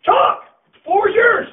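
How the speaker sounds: taunting yell. Real, not acted. Coach daring a mouthy senior to talk, taunting yell. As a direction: dare him to speak up.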